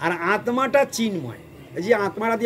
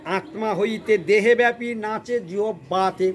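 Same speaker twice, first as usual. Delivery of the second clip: slow, raised recitation of scripture; recited verse; slower than usual. Shown as a demonstration. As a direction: intone the verse slowly. (ধীরে সুর করে শ্লোক আবৃত্তি)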